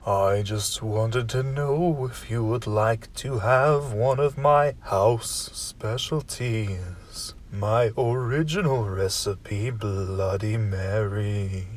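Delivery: a stately low butler, taking his time; deep butler voice. Acted. Butler offers a house drink.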